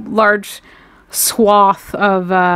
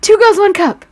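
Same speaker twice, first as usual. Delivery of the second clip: mock shock, high and loud; imagined startled celebrity; 10 semitones higher, 7 dB louder than usual. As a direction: play a star repeating the question in disbelief. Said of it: "She'll be like".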